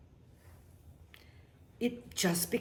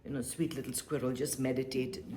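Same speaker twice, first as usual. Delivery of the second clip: low, softer mock-tender line to a squirrel; mock soothing advice; 4 semitones lower, 4 dB quieter, faster than usual. Teacher jokingly soothing a squirrel, low and soft. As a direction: gently tease the squirrel with advice. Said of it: "I can't go and say".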